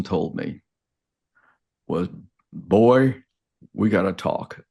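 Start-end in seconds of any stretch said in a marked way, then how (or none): 2.5-4.6 retold greeting. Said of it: "In his, in his best Georgia accent".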